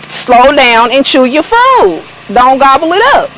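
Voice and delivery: high, gentle scolding as if to a puppy; pet talk to the dog. Real, not acted. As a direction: coax the dog to eat slowly, voice way up. Scolding the dog while feeding.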